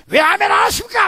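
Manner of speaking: high, loud snapping demand; mock fierce shout. Preacher scolding a silent congregation, mock angry shout. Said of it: "하면서 싸나워진다고요".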